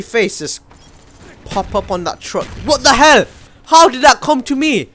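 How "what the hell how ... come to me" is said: much higher, louder outburst of disbelief; angry surprise. Real, not acted. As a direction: blurt it out, caught off guard. Killed suddenly in game.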